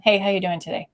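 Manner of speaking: quick box-ticking greeting; distracted, rushed check-in. Shown as a demonstration. Leader greeting a team member while distracted, perfunctory. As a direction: ask it like an item on your agenda. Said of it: "comes across like, "This is a bullet point".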